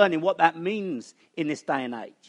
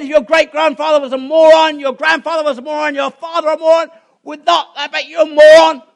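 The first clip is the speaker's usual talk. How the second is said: Southern preacher; 11 semitones higher, 13 dB louder than usual. Retold or imitated. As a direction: lecture her like a Southern preacher. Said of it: "they speak quite funny with Southern Baptists".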